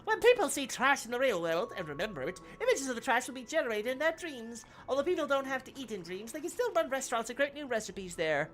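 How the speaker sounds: muffled robot voice through cupped hand; hand over mouth. Acted. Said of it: "put my hand over my mouth".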